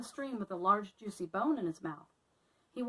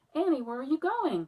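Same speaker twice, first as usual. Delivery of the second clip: loud, higher call after her friend; cried out; 6 semitones higher, 7 dB louder than usual. Acted. Melissa calling after departing Annie, loud. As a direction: call out as she runs off. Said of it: "cried Melissa".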